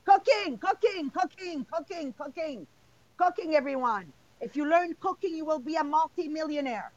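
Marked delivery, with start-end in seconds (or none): 0.0-5.8 passionate, loud at first then fading. Real, not acted. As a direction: chant it with passion, trailing off. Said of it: "So passionate".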